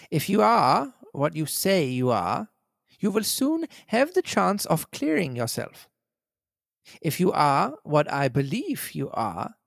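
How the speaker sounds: cold, measured villain; lightly voiced villain threatening the tramp.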